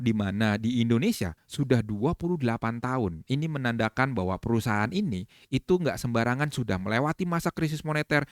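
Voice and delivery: company profile lightly built up as important; edifying pitch. Shown as a demonstration. Trainer demonstrates adding value to the company profile, edifying pitch. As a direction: present each company fact as a point of pride. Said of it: "saya coba tambahin nilai edifikasi".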